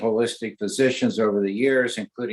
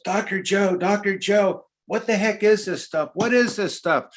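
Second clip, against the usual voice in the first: mock scream; 9 semitones higher than usual. Actress at the bar suddenly amazed at the patches, high mock yell. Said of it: "she all of a sudden screams".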